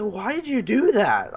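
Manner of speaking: rattled yelping at the guard; retold freak-out. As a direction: squeal it out, still shaken. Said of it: "I completely freaked out".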